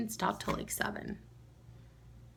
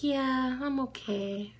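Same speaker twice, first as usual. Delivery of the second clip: lightly voiced little girl, high at the start; a hint of a child's drawn-out answer; Lila; 5 semitones higher, slower than usual. Niece answering her worried aunt, childlike reassurance. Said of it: "She's like".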